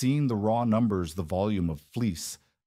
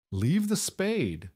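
grunted; 9 semitones higher, much slower than usual. A narrator's reading. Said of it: "the foreman grunted".

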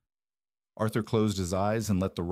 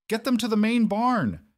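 high, louder shouted order; urgent shout; 13 semitones higher, 5 dB louder than usual. A narrator's reading. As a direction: shout it over a howling wind. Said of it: "Josephine shouted over the howling wind".

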